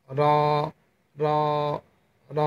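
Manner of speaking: র said alone, tongue tip on the ridge behind the teeth; crisp separate র sounds with pauses; Arabic letter demo. Shown as a demonstration. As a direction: clear teacher demo of র. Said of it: "র হরফটি উচ্চারণ করবেন".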